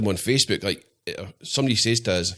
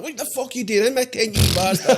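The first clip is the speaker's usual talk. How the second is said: high, hammed-up yell at a stranger in the tent; high-pitched mock outrage at an intruder; mock angry yell; 11 semitones higher than usual. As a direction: shriek it like you caught a thief.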